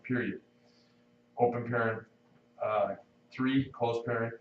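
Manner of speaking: reading legal text with spoken punctuation; dictating. Shown as a demonstration. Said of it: "It's gonna read like this".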